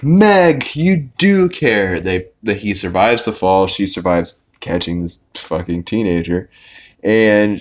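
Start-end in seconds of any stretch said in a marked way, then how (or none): 0.0-2.0 touched. Retold or imitated. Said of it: "he's like".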